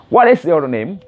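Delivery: WHAT IS YOUR NAME run together; quick connected version. Shown as a demonstration. Teacher repeats the fast version for learners, quick and linked. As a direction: link the words into one question. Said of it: "kalau secara cepat nanti akan dibilang".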